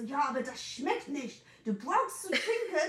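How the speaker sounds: leicht höher gesprochene, drängende Mutter, nur angedeutet; besorgte Mama. Retold or imitated. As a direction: spiel die besorgte Mama ein wenig höher nach. Mama im Streit nachgespielt. (Tochter ahmt die Mama nach, die auf schwarzem Tee besteht, leicht höher und drängend)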